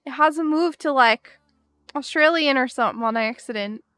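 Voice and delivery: jokey put-on British accent; amateur British, playfully insistent; attempted British accent. Shown as a demonstration. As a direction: defend your wobbly British accent in that accent. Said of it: "at least it's British".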